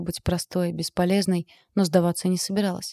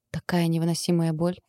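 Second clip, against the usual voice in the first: ordinary delivery, nothing marked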